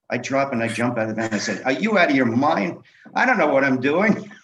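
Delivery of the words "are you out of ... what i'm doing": loud, high, indignant retelling; reenacted alarmed yell, pitched up; alarmed outburst. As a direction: act out shouting in disbelief and panic. Retelling his panicked jump from the van.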